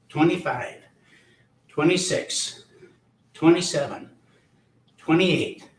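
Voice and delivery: strained, breathy counting mid-exercise; out of breath. Real, not acted. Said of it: "Get a little out of breath".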